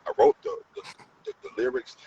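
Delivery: squeaky high mock retelling of his own words; high retold quote. Telling the producer he wrote it, in a high squeak. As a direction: voice jumps way up, high and loud. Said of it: "I said".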